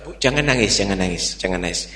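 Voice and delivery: low, hushed, quick reassurance; soothing. Acted. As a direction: gently hush a crying child, voice dropping. Gas seller soothes crying child.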